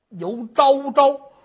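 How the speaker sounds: slow, loud, drawn-out demand; demanding shout. Acted. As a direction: press her for a confession. Magistrate demands confession again.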